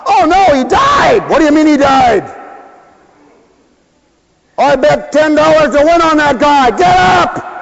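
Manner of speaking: upset bettor shouting. Acted. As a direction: shout at the fallen boxer to get up. Bettor watching his boxer die.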